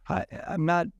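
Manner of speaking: mock confused prospect question. Shown as a demonstration. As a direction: sound genuinely lost so they explain. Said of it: "That's a confused tone".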